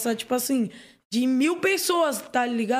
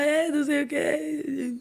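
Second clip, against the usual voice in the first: drowsy slurring; 2 semitones higher, slower than usual. Retold or imitated. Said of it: "eu não conseguia nem falar".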